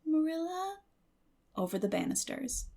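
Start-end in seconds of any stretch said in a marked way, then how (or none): 0.0-0.8 much higher, pleading call upstairs; plaintive call. A narrator's reading. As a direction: call down sadly from the banisters. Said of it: "a plaintive voice calling".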